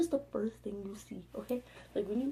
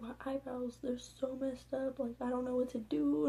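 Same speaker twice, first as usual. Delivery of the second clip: mildly whiny retold crying, a bit higher; mock crying; 4 semitones higher than usual. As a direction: plead as if tearful, drawing the words out. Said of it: "I'm, like, crying".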